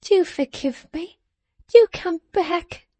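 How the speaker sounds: high, slow pleading wife; timid wife imploring; earnest pleading. A narrator's reading. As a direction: beg earnestly in a small high voice. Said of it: "said his wife earnestly".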